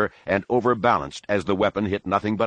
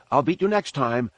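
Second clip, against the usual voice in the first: calling after; 6 semitones higher than usual. Acted. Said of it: "Anakin's predictable call behind him".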